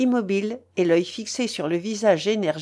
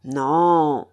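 low, cold refusal; one long, icy word, pitched down; 4 semitones lower, 5 dB louder than usual. A narrator's reading. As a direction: say it coldly. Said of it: "dit Argot froidement".

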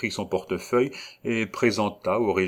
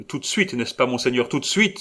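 higher, louder, urgent plea; eager cry; 6 semitones higher, 4 dB louder than usual. A narrator's reading. Gaston urging the regent to sign, eager cry. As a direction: press him to act now. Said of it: "s'écria Gaston".

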